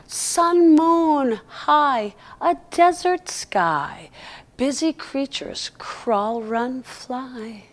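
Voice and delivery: slow, gentle rhyming read; poem reading. Acted. Reads a rhyming poem aloud.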